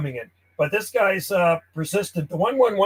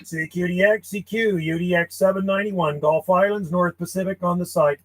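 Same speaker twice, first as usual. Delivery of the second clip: radio CQ call. Acted. Ham operator calling CQ on the radio, steady call-sign delivery. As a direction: call out steadily over the air.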